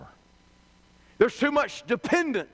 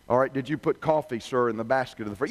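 lower, patient service voice; calm customer rep; 9 semitones lower than usual. Retold or imitated. Rep walks the angry customer through the checklist, calm and lower. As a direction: keep steady and polite with a difficult caller. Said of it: "The rep calmly replies".

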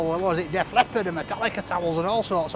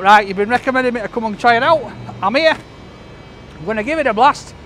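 slightly out of breath; 2 semitones higher, 5 dB louder than usual. Real, not acted. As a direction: talk a bit winded after walking. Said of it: "I don't know why I'm out of breath".

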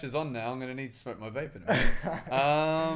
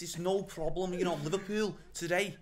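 put-on South African accent, pitched higher; light South African accent, casual; 5 semitones higher than usual. Guest shows off accents on podcast, South African accent. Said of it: "Oh, South African".

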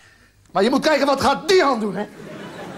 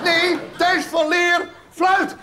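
slow, stretched, raised voice; drawn-out exasperated shout; 5 semitones higher, much slower than usual. Acted. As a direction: hammer the name out slowly. Exasperated repeating the answer.

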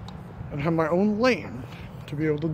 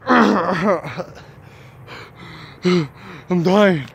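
hoarse, louder after coughing fit; 6 dB louder than usual. Real, not acted. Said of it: "Why is my third so cold".

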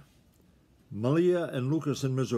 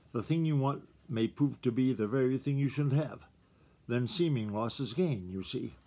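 story narration. A narrator's reading. Reads a children's animal story.

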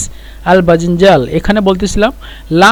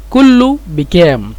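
slow demo; slower than usual. Shown as a demonstration. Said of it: "আঞ্চলিক ভাষায় বলি".

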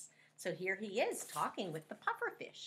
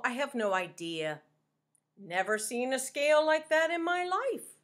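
pufferfish voice; 3 semitones higher, 5 dB louder than usual. Acted. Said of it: "said the pufferfish".

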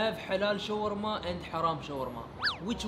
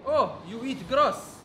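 mocking disbelief; 4 semitones higher, 4 dB louder, slower than usual. Waiter mocks vegan customer.

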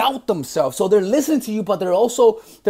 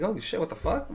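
much softer, stunned under the breath; hushed shocked curse; 12 dB quieter than usual. Retold or imitated. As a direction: mutter it to yourself, thrown off. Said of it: "I'm like".

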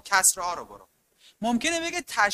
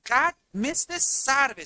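slow example; 4 semitones higher, slower than usual. Shown as a demonstration.

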